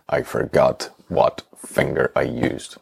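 imitating a slow, halting admission; mock-solemn, drawn-out delivery; slow confession. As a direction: spell out the embarrassing confession word by word. Customer's sheepish confession, retold.

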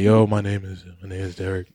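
low, lazy mock of his intro line; mock Derek intro. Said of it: "I don't talk like that".

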